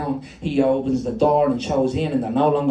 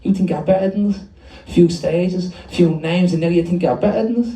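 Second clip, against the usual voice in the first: raised, confrontational taunt; snarling; 4 semitones higher than usual. Acted. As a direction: sneer it like a challenge. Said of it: "just a snarl".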